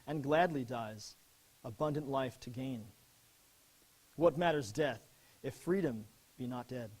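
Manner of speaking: measured, solemn recital with slowed phrases; poem reading. Acted. Soldier reads his sergeant's sonnet to his parents, solemn recital.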